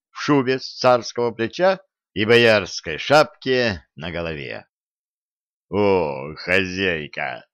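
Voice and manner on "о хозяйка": put-on slow, lower drunk delight; glad greeting. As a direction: greet her happily. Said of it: "радостно сказал Кощей".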